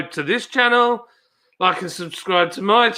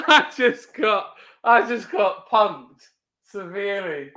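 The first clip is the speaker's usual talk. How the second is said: laughing disbelief; 3 semitones higher, slower than usual. Real, not acted. Laughing at being pranked.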